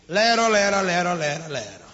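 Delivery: mocking singsong. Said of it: "Así le hace el marido".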